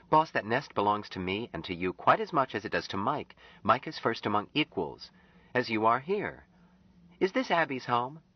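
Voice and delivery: put-on high, earnest young woman's voice; Anne. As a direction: voice Anne, pleading gently with Jubal.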